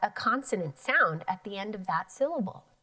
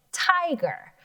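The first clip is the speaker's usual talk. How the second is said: "tiger" said much higher; high modeling voice; 9 semitones higher than usual. Shown as a demonstration. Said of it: "Say it".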